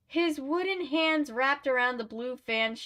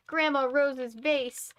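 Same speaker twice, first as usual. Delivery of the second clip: mom's dismayed cry; 5 semitones higher, slower than usual. A narrator's reading. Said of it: "Mom cried".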